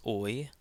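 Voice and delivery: "oi" as one gliding sound, as in English. Shown as a demonstration. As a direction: say "oi" like the vowel in boy. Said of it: "the O I sound".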